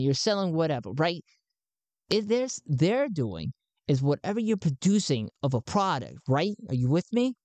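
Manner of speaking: an excited recruiter greeting a new believer; high-pitched Garn. Acted. Garn welcomes Sven into the cause, pitched high.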